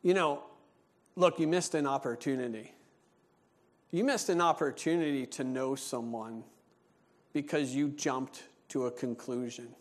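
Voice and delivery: level with her, solemnly; serious. Retold or imitated. Pastor gravely correcting the woman, low and serious. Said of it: "in a serious face".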